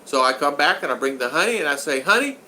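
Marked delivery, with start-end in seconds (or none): 2.0-2.4 high, rising sing-out to the cashier; playful calling out. Retold or imitated. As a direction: call out teasingly, pitched up high. Teasing cashier, calling out honey.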